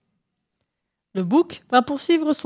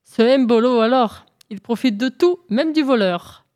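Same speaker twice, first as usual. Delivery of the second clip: exclaiming; 3 semitones higher than usual. Acted.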